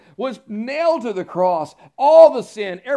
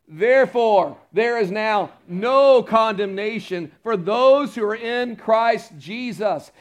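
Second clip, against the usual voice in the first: slow, louder, ringing proclamation of the verse; preacher voice; 5 dB louder, slower than usual. Shown as a demonstration. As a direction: declaim it like a preacher leading the congregation. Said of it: "put your preacher voice on".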